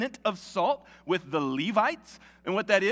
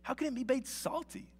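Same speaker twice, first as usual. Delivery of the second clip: measured public Bible reading with lifted emphasis; scripture reading. Acted. Preacher reads Matthew five to the congregation, scripture reading. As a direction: read it out to a congregation, phrase by phrase.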